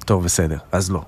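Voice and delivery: low, pretend giving in; mock resignation. Host pretends to give up coaxing.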